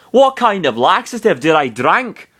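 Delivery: high, swooping disbelief; shocked. A narrator's reading. Narrator voicing Falco's laxative thought, in shock. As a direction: demand it in high-pitched alarm. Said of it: "he thought in shock".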